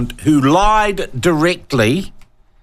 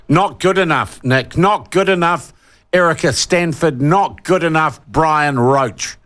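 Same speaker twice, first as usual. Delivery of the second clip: worked-up roll call; 3 semitones higher than usual. Real, not acted. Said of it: "I'm getting worked up".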